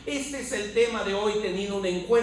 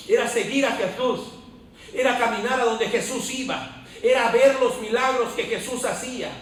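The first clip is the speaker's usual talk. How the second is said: insistent, rhythmic sermon list gaining force; impassioned pulpit cadence; fervent preaching; 3 dB louder than usual. Real, not acted. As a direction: build each repeated phrase like a rousing preacher. Preaches a rising list of miracles.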